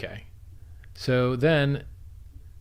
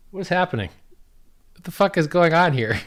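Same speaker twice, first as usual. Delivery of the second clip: higher, louder mock bewilderment; incredulous higher outburst; retold disbelief; 7 semitones higher, 7 dB louder than usual. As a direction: act out stunned confusion at the stream. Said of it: "I'm like".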